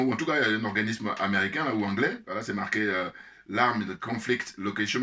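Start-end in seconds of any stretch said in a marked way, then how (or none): 3.5-5.0 slow, careful English name with a French accent; reading "l'Armed Conflict Location" slowly in French-accented English. Real, not acted. Apologizing for his accent, he reads the English name slowly in French-accented English. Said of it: "excusez-moi pour le, l'accent".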